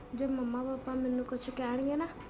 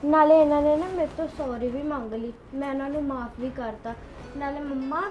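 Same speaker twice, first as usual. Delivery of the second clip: put-on louder child insisting grandma is good; earnest, raised protest to her parents; defiant protest; 6 dB louder than usual. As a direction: stand up for her, loud and firm. Child loudly defends grandmother.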